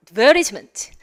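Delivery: "advertisement" as ad-VER-dis-ment; Australian "advertisement" with flapped t; Australian pronunciation. Shown as a demonstration. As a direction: stress VER in "advertisement", soften the t. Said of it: "세 가지 발음이 있겠죠".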